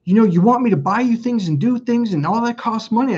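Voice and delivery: replaying a frustrated rant at his ex; retold anger. Man retelling complaint to his ex, mock exasperated. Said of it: "I got really mad at her".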